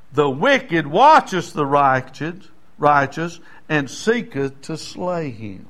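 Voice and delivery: slow, measured Bible reading; solemn reading from the pulpit; scripture reading. Acted. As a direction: read the verses with weight. Reads scripture aloud.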